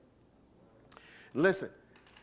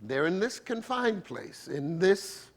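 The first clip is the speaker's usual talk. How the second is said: slower restatement; 3 dB quieter, slower than usual. Shown as a demonstration. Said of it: "say it differently".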